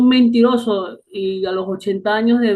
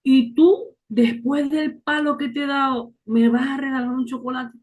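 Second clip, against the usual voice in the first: raised, astonished "¿Y tú?"; surprised question; 4 semitones higher than usual. Retold or imitated. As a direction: ask in disbelief. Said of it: "Y yo hasta le dije". (pregunta sorprendida)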